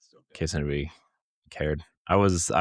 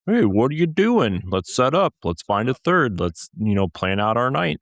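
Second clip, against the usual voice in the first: high, eager buddy calling you up; high excited friend voice; 5 semitones higher, 4 dB louder than usual. Pretend. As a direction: sound like an eager pal inviting you to game. Imagined friend calling to play.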